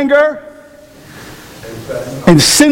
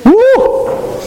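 high whoop of surprise; whooping yelp; 13 semitones higher than usual. Real, not acted. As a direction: yelp it like you got zinged. Reacting to heckle from congregation.

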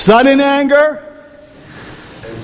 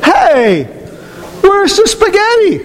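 high, rising whine; disappointed husband; 11 semitones higher, slower than usual. Retold or imitated. Husband asking wife where the spaghetti is, high and let down. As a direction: sound let down, reaching. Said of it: "he says to his spouse".

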